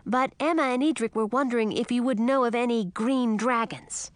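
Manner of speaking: put-on a lively young dragon asking politely. Young dragon Ralph speaks.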